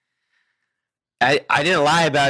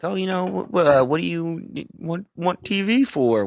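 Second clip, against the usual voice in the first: put-on Southern accent; 7 semitones higher than usual. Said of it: "thick Southern accent".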